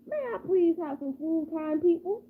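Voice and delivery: lightly voiced, courteous begging dog; polite dog. Nice dog asks the people for food, politely.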